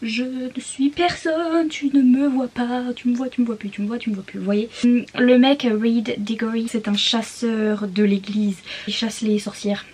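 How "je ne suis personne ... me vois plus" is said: sorcière qui se cache. Acted. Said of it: "elle est un peu en mode".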